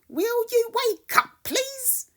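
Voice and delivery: high, polite kitten voice; Max the kitten. Acted. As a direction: coax the sleeper awake. Max wakes the monster.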